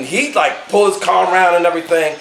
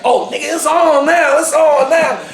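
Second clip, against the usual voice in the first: retold threat; 7 semitones higher than usual. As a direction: imitate a guy ready to fight in a parking lot. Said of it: "when he said that".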